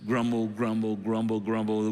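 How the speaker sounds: monotone token grumble; mock grumbling. Superior ones complaining about others, mock grumbling. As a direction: chant it evenly as a pretend complaint. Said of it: "I can just grumble about you".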